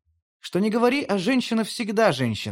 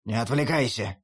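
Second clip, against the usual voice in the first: put-on lower, gruff old wolf grumble; grumbling wolf; 6 semitones lower than usual. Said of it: "ворчит волк". (ворчливо, низким голосом волка)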